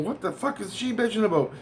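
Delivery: retold exasperation. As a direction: act out wondering what her problem is. Acts out own annoyed reaction.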